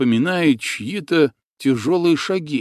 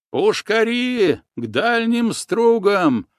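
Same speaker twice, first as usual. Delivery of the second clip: commanding order; 10 semitones higher, slower than usual. A narrator's reading. Ataman gives battle orders.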